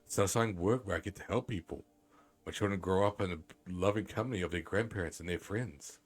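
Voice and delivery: measured, lilting letter reading; reading aloud. Acted. Streamer reads Grandma's pleading letter aloud, lilting storytelling tone. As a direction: read it out like a heartfelt in-game letter.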